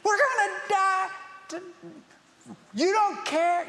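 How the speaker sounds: very high, loud panicked wail; screaming. Acted. Twelve drenched disciples screaming at Jesus, panicked. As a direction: shriek it in mock terror, way up high.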